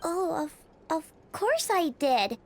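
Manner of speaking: sheepish flustered excuse; nervous stammer. Acted. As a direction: caught red-handed fumbling. Caught breaking snack schedule.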